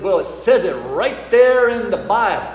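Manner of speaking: emphatic Southern local, voice pushed up; Southern accent. Acted. Local explains nativity firemen to visitors, Southern accent. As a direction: deliver the punchline in a Southern US accent. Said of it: "lovely southern voice".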